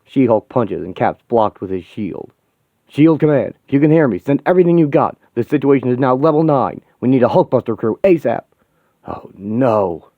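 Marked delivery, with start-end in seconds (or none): 2.9-8.4 urgent shouting. Acted. Urgent radio call in battle.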